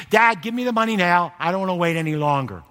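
loud demanding son's voice. Acted. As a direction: push the father hard for the money. Rebel son demands money again.

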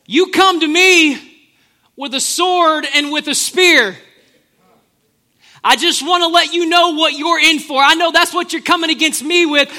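loud, cocky challenge, slowed for weight; trash talk. Retold or imitated. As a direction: taunt the giant with swagger. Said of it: "the world's first trash talker".

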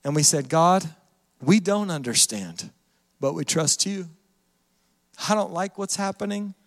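low, subdued praying voice; heartfelt prayer. Retold or imitated. Pastor recounting a prayer to God in pain, low prayer. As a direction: pray simply and soberly, lightly held back.

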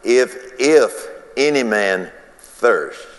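slow, weighty "if, if any man thirst"; emphasize "if any man thirst" deliberately; underlined phrase. Shown as a demonstration. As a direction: lean on "if" and let "any man thirst" land slowly. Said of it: "underline it".

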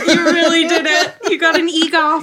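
high laughing cheer. Real, not acted. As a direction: laugh through the congrats. Laughing congratulations.

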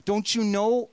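mild anguished reproach; pleading complaint. Retold or imitated. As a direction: cry out to a sleeping Jesus. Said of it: "the disciples say".

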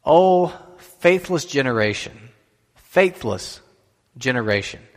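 slow, drawn-out frustrated lament. Acted. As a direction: read it as a weary reproach, stretching the first words. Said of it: "And he seems frustrated".

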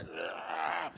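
soft imitation gorilla growl; gorilla roar. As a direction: growl like a gorilla, held back. Imitates gorilla on gym roof.

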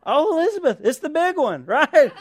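high-pitched, hammed-up dismay; mock shock. Relative reacting to opting out of the name exchange, mock shock.

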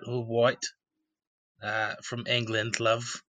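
light mock English accent, casual; chatting in a put-on English accent. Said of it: "the English accent does come a bit more natural".

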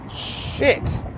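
breathy high "Shit" under the breath; startled driver's whispered curse. Real, not acted. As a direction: whisper it at the car. Reacting while driving.

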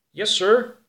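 loud, high reply from another room; calling back. A narrator's reading. Helper to boss from another room, calling back. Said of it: "klonk het vanuit een andere kamer".

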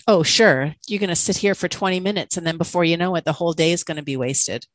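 quick, scoffing inner critic; sarcastic mean voice. Retold or imitated. Inner critic mocking her rest, fast sarcastic scoff. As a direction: sneer at yourself, fast and dismissive. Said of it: "hearing that mean voice".

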